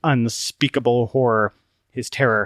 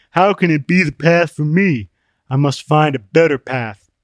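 higher, louder put-on voice, aggrieved; Open-Minded, complaining; 4 semitones higher, 6 dB louder than usual. Open-Minded grumbling about the new quest, complaining. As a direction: protest in a raised character voice.

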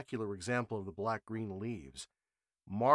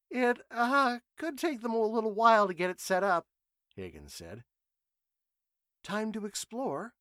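high, keen, itching to go; eager young man; 12 semitones higher, 6 dB louder than usual. A narrator's reading. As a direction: push to go exploring. Higgins voiced, eager.

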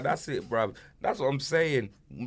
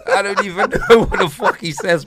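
much higher and louder, laughing at the joke name; 13 dB louder than usual. Real, not acted. Mocking the rapper's lyrics to a mate, high and laughing. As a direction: squeak it out through a laugh.

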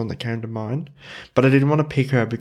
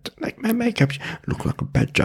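mock queen insult; 11 semitones higher than usual. Quoting the queen insulting Sarah's makeup, high then whispered. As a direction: sneer it like a cranky queen. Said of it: "It's like".

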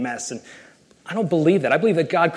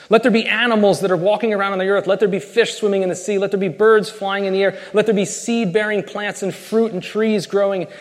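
raised, quick proclaiming; fast, lifted divine decree; God commanding; 5 semitones higher, 3 dB louder than usual. Acted. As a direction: rattle off the commands like God calling creation out. God's creation commands, fast.

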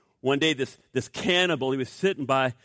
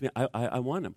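soft, halting retold answer; low and soft, tripping over the first word; hushed reply; 3 semitones lower, 6 dB quieter, faster than usual. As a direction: imitate a quietly stammered, heartfelt yes. Retelling woman's hushed answer.

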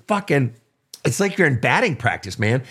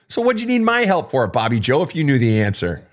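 teasing. Pretend. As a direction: rib the caller good-naturedly. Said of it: "I'm teasing".

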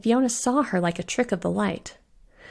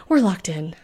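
louder, overdone panic; hammed-up panic, not quite a shriek; mild mock shriek; 4 dB louder than usual. Bellamy to the others, door locked, overdone panic. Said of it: "Bellamy shrieked".

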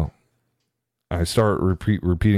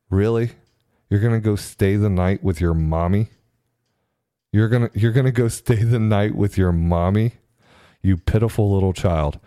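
imagined disgust. Retold or imitated. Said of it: "it was a look of disgust".

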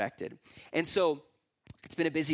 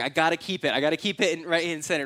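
louder, urgent self-quote; insistent; 7 dB louder, faster than usual. Retold or imitated. Recounts his own insistence to wife.

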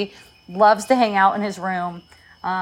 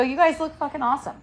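laughing mock praise; 5 semitones higher, 4 dB quieter, faster than usual. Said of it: "I go".

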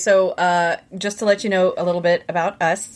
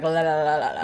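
blurred la la; 4 semitones lower, faster than usual. Shown as a demonstration. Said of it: "the words just kinda like".

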